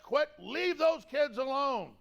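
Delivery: slow, roaring curse at a passing man; angry yell from a car. Retold or imitated. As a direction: bellow it like a stranger shouting from a car window. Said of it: "the car will go".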